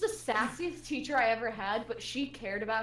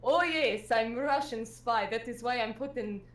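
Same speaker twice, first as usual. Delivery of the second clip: lightly voiced Russian accent, dry; a sassy teacher deadpans a joke. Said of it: "she was like".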